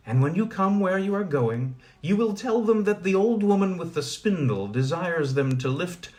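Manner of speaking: put-on an old spinner sending her message; old woman. Old woman instructing Colin and her hen Jenny.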